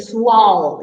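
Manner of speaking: Sensual with the last syllable stressed; stress on the end. Shown as a demonstration. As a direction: land hard on the end of Sensual. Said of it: "You stress the last part".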